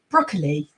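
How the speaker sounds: broccoli with all three syllables, "brock-uh-lee"; every vowel sounded. Shown as a demonstration. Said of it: "we pronounce every single vowel".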